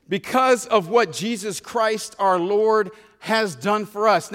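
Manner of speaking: slow, reverent reading of the verse; slow, solemn verse read; scripture reading. Shown as a demonstration. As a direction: let each word land slowly. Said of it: "We have peace with God".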